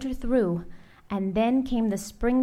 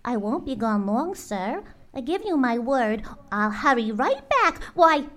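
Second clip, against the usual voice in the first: coaxing bird; 3 semitones higher than usual. Acted. Maisie keeps coaxing Horton.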